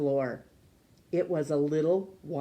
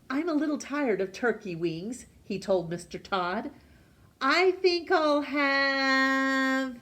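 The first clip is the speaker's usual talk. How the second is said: cheerful Hatch; 3 semitones higher than usual. Acted. Hatch orders something new.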